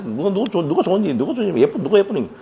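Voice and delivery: lightly acted children arguing over favourites; imitated squabbling. Dad retelling his kids' quarrel over idols, lightly mimicked squabbling. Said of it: "저들끼리 막 싸우고 그랬는데".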